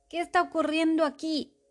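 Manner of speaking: speaking between coughs; coughing. Acted. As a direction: ask it through the coughs. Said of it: "preguntó el rey entre toses".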